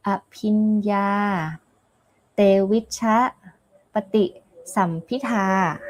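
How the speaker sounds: Pali terms in a Thai accent, slow on the first word. Shown as a demonstration. Nun naming Pali attainments to students in a Thai accent. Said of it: "in Thai accent".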